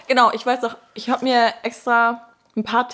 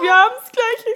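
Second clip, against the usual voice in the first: mock doctor; 13 semitones higher, 6 dB louder, slower than usual. Imitating the doctor.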